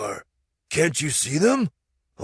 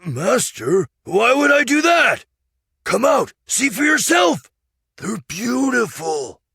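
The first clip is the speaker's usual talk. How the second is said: high, loud insistent shout; high shouting insistence; insisting; 9 dB louder than usual. Acted. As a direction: squire pressing his master to come out. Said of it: "Sancho insisted".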